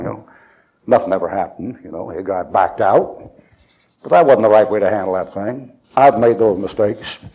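ordinary talk

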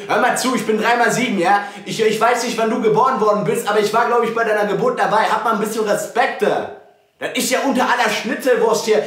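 lauter, empörter Wortschwall; angry shouting. Real, not acted. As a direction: mach ihn laut und empört nieder. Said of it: "bitte nicht schreien in meine Wohnung". (lautstark empört)

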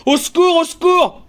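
very high, desperate call for help; imploring cry. Acted. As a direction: beg loudly to be rescued. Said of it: "L'écho suppliant".

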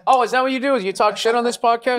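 high teasing mock outrage; mock accusing. Real, not acted. Cohost teasing guest with mock shock. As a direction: tease her like you caught her.

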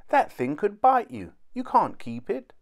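high-pitched motherly telling-off; alarmed scolding. A narrator's reading. Mother forbids the mouse.

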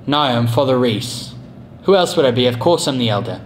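put-on British accent, unhurried. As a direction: answer in a theatrical British accent. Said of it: "give you a British accent".

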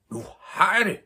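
high, loud cry of discovery; excited shout. A narrator's reading. Herr Løve shouting as he gets his idea. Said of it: "råbte han".

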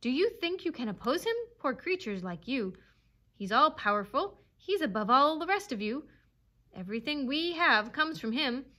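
fervent, high-pitched proclamation; exultant devotion. A narrator's reading. Dog praising his master to the animals, exultant. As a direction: rise with worshipful zeal. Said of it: "quivering with exultation".

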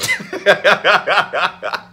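a bright laugh after the punchline; real laugh. Real, not acted. Joking to viewers he wants to be wanted, laughing out loud. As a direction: laugh at your own confession. Laughs at his own joke.

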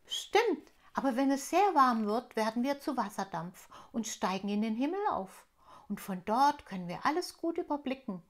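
lauter, erklärender Wassertropfen; Wassertropfen Aquarius. Acted. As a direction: ein Tropfen, der stolz alles weiß. (Aquarius erklärt dem Elfenmädchen die Welt, leicht gespielt)

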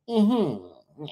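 stoner friend's hum; Brian Greer. Retold or imitated. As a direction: hum agreement like a spaced-out stoner. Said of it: "used to talk like that".

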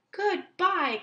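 high, loud farewell; calling out. Acted. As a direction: call it after him. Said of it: "called Owl".

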